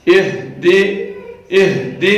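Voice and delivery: اہدی with the ha from the chest, slow. Shown as a demonstration. Teacher modelling the ha in اہدی. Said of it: "ہا ہے جو سینے سے ادا ہو رہی ہے".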